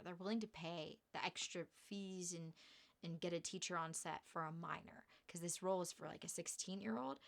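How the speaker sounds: hushed, secretive whisper; whispered aside. Real, not acted. Explaining the minor fees, a confiding whisper.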